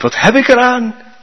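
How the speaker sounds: trapped man begging for help; calling out. Acted. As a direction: cry up in despair. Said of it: "Maar de Chinees riep".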